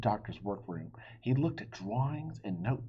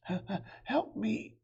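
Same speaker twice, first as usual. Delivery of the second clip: pleading; 12 semitones higher than usual. Acted. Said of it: "it pleaded".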